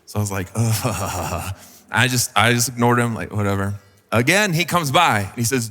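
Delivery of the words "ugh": annoyed groan. Retold or imitated. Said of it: "I'm starting to get real irritated".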